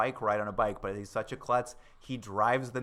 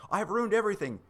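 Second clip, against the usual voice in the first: higher, louder mock melodramatic wail; hammed-up despair; 10 semitones higher, 4 dB louder than usual. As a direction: overplay a suitor who thinks all is lost. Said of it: "he's just like".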